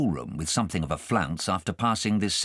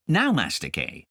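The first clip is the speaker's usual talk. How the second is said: cross cook; 6 semitones higher than usual. Acted. Cook Jane catching Kay at the raisins, mildly cross. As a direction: scold the boy mildly.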